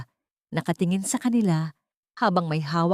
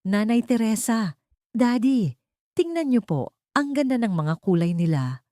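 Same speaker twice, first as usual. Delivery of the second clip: put-on higher, eager little girl's call; excited child calling; 4 semitones higher than usual. Young Sofia calls her parents to see the seashells, excited and higher. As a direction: call out like a delighted child showing a treasure. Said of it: "Ang sigaw ni Sofia".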